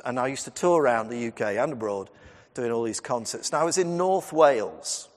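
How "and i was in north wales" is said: Welsh accent. Shown as a demonstration. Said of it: "apologies for me attempting your accent".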